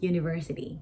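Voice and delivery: university with the stress on ver. Shown as a demonstration. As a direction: say university again, leaning on ver. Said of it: "อีกครั้งหนึ่ง".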